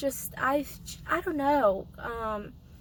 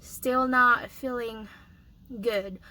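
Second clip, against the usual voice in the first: hoarse voice. Real, not acted. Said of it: "As you can hear my voice".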